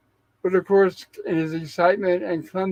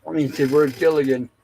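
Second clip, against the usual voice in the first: talking through hiccups; words broken by hiccups; 2 semitones lower than usual. Real, not acted. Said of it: "Sorry, I got the hiccups".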